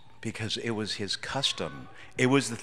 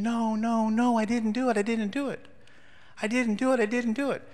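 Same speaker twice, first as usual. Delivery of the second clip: desperate denial; 11 semitones higher than usual. Retold or imitated. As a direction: plead your innocence over and over. Boy protesting while being spanked.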